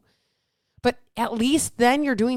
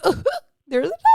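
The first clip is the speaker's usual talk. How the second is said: excited; 10 semitones higher, much faster than usual. Real, not acted. Excited at a new sign-up.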